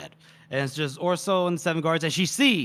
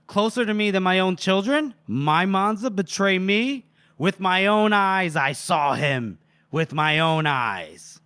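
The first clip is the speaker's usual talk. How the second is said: wounded accusation; 3 semitones higher, 3 dB louder than usual. Acted. Duke accusing his favorite of betrayal, wounded and emphatic. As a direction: draw out each word as a betrayed accuser.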